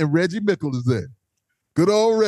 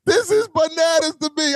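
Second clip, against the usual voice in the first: laughing disbelief; 9 semitones higher, slower than usual. Retold or imitated. Laughing at the mosh pit.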